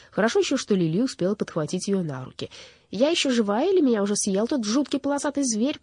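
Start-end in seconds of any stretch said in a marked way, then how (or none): 2.9-5.8 high plaintive moan; moaning crow. A narrator's reading. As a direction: wail as if barely alive. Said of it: "простонала ворона".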